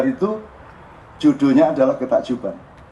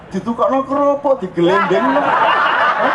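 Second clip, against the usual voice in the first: amused disbelief; 9 semitones higher, slower than usual. Shown as a demonstration. Acting out the windfall reaction.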